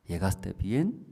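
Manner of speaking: a lightly voiced hidden voice giving orders; low mysterious voice. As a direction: speak like an unseen voice in the dark. Hidden voice asking.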